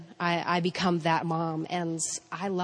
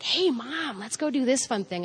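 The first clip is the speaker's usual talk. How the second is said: put-on kids' voice; 6 semitones higher than usual. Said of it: "they're like".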